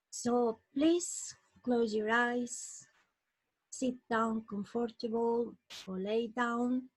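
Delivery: unhurried meditation guide with long pauses; guided meditation. Acted. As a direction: lead listeners gently into relaxation, phrase by phrase.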